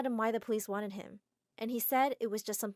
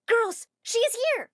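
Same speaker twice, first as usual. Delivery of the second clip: high, loud, slow call to the crowd; 13 semitones higher, 7 dB louder than usual. Acted. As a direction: announce her to the girls at full voice. Fan spots them, calls out.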